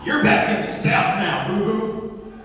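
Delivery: lightly voiced Southern mom; Southern white lady. Mom rebukes the man on the plane, Southern sass. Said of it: "Southern white lady, says".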